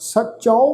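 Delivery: ਸਚੋ with an "au" ending, sach-au; pronunciation demo. Shown as a demonstration. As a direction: open the end of ਸਚੋ into a diphthong. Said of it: "ਚੱਚੇ ਅੱਖਰ ਤੇ ਕਨੋੜੇ ਦੀ ਮਾਤਰਾ ਹੈ".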